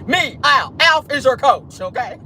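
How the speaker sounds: high, slowed puppet-alien voice; Alf voice. Pretend. Streamer voicing Alf as a coach. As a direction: Alf boasting he's the coach. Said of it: "how Alf sound".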